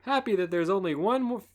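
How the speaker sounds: lightly voiced host; host announcer voice; Chris voice. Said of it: "make Dawn a girly girl".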